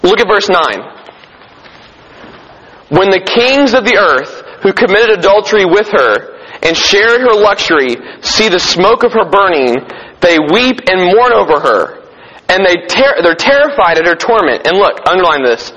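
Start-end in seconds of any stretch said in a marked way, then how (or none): 2.9-14.7 raised, emphatic Bible reading; scripture reading. Acted. Preacher reads of kings watching Babylon burn, scripture reading. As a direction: read the verse out with weight.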